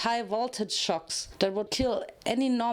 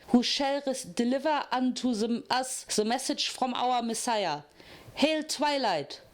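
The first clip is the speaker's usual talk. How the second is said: zealous preaching; 2 semitones higher than usual. Acted. Zealot preaching to her followers.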